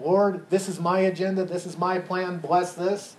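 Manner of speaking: MY leaned on in a mock self-centred prayer; stress on MY. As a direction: hit each "my" in the mock prayer. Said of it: "See the contrast there?".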